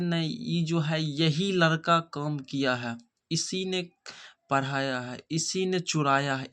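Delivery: इसी pressed hard as the one who did it; insistent stress. Shown as a demonstration. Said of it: "हम कहते हैं". (इसी ने पर ज़ोर देकर)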